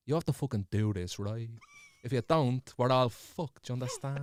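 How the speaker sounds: lightly voiced ninja impression; hushed, urgent ninja warning. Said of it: "Give us a ninja impression".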